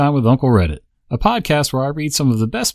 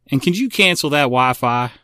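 put-on Southern accent; 4 semitones higher, 4 dB louder than usual. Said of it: "Thick Southern accent".

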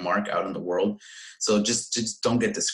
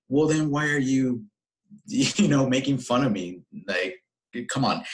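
higher, laughing retort of disbelief; 6 semitones higher than usual. Retold or imitated. Retorting to the troll who mocked his English, laughing in disbelief.

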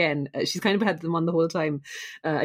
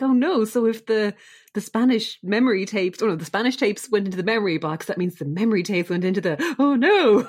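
panicked Enid; 4 semitones higher than usual. Retold or imitated. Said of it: "so she's like".

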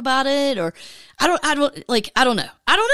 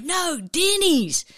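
correcting voice; 6 semitones higher, much slower than usual. Retold or imitated. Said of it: "And they'd be like".

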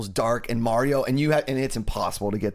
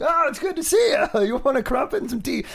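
much higher, sugary-polite put-on voice with a laugh; hammed-up friendly visitor greeting the wife; mock Liam Neeson; 11 semitones higher than usual. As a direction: play the killer as the overly nice houseguest. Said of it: "Liam Neeson comes to your house like".

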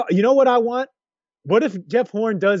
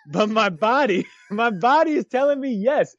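laughing quote. Real, not acted. Quoting song, laughing.

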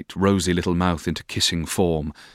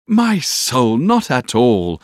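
raised, drawn-out cheery reassurance; cheerful; 5 semitones higher, 4 dB louder, much slower than usual. A narrator's reading. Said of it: "said I cheerfully".

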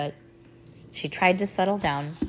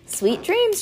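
sweet goodnight; 14 semitones higher, 5 dB louder than usual. A narrator's reading. Mom says goodnight.

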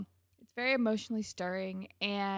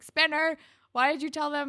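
upset; 7 semitones higher, 7 dB louder than usual. Retold or imitated. Marco confronting Spinner.

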